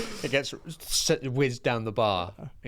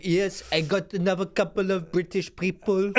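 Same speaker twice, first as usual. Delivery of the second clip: gleeful villain; 8 semitones higher than usual. Retold or imitated. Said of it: "And he's like".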